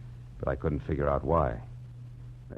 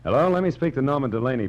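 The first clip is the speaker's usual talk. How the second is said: demanding; 8 semitones higher, 7 dB louder, faster than usual. Acted. Detective demands on the phone.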